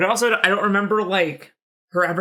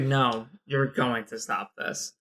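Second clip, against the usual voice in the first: slow low dad voice; 5 semitones lower, 5 dB quieter, much slower than usual. Retold or imitated. Dad voiced in retold scene.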